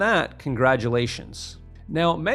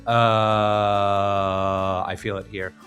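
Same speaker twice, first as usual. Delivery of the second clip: chest voice; 4 semitones lower, much slower than usual. Shown as a demonstration. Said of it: "Am I feeling the vibrations in my chest".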